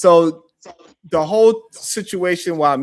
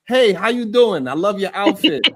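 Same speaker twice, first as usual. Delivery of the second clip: mock friendly greeting; 5 semitones higher than usual. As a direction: play the overly sweet passerby.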